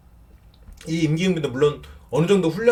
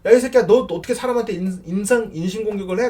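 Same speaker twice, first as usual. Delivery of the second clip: higher and louder, a half-acted snap; a taste of fake outrage, voice up and louder; mock angry retort; 6 semitones higher, 3 dB louder than usual. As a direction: play the insulted friend telling him off. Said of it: "또 화내는 거".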